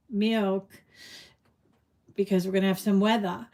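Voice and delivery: light New England accent, weather as "weathah". Shown as a demonstration. New Englander explaining the milk run, light New England accent. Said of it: "That's how they say it".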